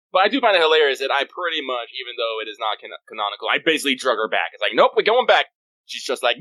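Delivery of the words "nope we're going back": high, loud overruling of a refusal; bossy mock insistence. Friend acts out dragging her back, bossy and loud. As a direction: playfully lay down the law.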